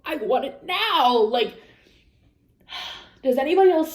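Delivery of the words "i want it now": put-on slower, higher, loud like a greedy kid; childish impatience. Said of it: "not saying".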